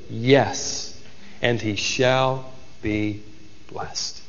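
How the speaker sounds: father yielding to God's will, resigned and slow. Acted. Slow resigned acceptance, trailing into softness. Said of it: "It's as if he resigned".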